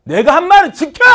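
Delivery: loud, high Gyeongsang-dialect shout. Retold or imitated. Teacher imitating a man of his word, loud Gyeongsang dialect shout. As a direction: bark it like a blunt southern man.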